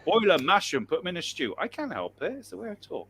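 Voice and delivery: put-on hammy West Country yokel accent. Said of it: "my West Country accent".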